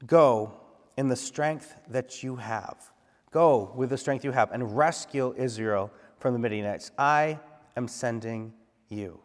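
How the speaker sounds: slow, deliberate proclamation; weighty, slowed verse read; scripture reading. Acted. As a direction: let "Go" ring out, then slow down. Rereads verse slowly.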